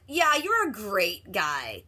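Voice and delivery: lightly voiced mother, drawn out slow; a hint of a dreamy mom. Reminiscing mother to Jade, slow and lightly voiced.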